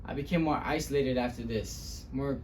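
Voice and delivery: subdued dramatic storyteller; weighted pauses, building on the last word. Acted. The speaker recalling eviction and isolation, subdued then bitter. Monologue continues, more subdued.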